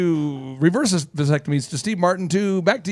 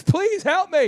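mock pleading; 11 semitones higher, much slower than usual. Begging for help, mock plea.

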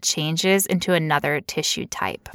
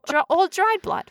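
gross-out voice; 11 semitones higher than usual. Pretend. Grossed-out joke about blood.

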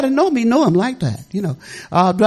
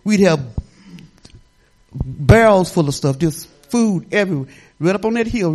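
ordinary talk

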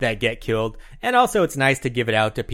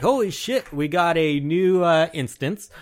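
mock excited; 5 semitones higher than usual. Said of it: "you're like".

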